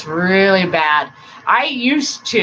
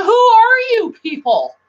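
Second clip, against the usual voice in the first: baffled quote; 6 dB louder than usual. Retold or imitated. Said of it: "I was like".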